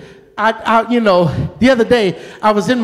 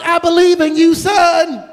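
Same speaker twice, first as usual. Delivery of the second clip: calling back; 4 semitones higher, much slower than usual. Retold or imitated. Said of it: "I'm like".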